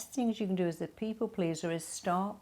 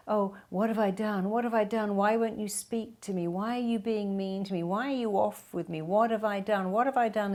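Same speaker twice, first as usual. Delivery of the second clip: fretful self-blame; 2 semitones higher than usual. Retold or imitated. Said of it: "I go".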